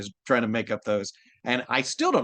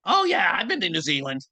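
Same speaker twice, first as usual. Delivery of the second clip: Usopp voice; 5 semitones higher than usual. Pretend. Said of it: "Usopp talking about New Zealand".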